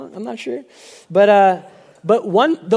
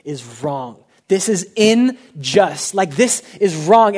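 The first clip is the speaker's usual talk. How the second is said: fired up; slower than usual. Retold or imitated. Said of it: "And I was so fired up".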